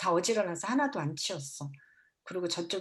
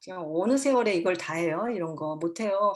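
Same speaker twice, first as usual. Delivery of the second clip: exasperated parent; 4 dB louder than usual. Retold or imitated. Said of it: "확 올라와요".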